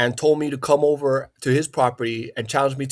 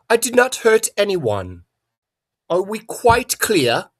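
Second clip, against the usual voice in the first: high, slow, every word pronounced carefully; over-enunciate it like a snob; mock proper diction; 6 semitones higher, 4 dB louder, slower than usual. Mocking his critics with a slow, overly proper voice. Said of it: "talk more properly with the King's English".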